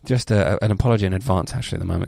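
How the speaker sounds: blocked nose, extra nasal; stuffed-up nasal voice from a cold. Real, not acted. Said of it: "Are you extra nasal?".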